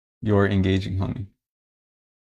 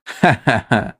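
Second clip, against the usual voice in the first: annoyed warning laugh. Shown as a demonstration. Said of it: "for situations where I'm a little bit annoyed".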